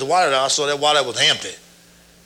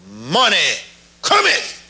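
divine words retold; 2 semitones higher, slower than usual. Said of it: "I heard these words right here".

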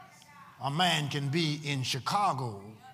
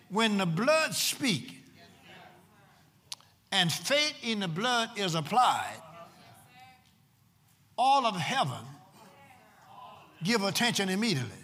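emphatic preaching with long pauses between phrases; 6 semitones higher, 3 dB louder than usual. Real, not acted. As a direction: drive each phrase home to the congregation. Re-reads the line to congregation.

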